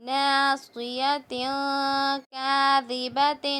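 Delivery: slow, drawn-out tajweed reading; slow recitation. Shown as a demonstration. Teacher slowly reciting the words for the pupils. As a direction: lay each syllable down slowly for the class. Recites phrase while building it.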